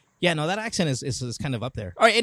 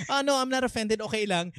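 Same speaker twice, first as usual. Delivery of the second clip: fake polite; 4 semitones higher, 3 dB quieter than usual. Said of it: "you're supposed to say".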